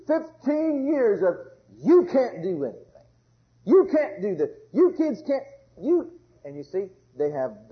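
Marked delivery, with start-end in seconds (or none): 1.8-6.1 louder, harsh imitation of nagging; scolding parent. Preacher imitating a parent scolding the kids, louder. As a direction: bark the can'ts at the kids.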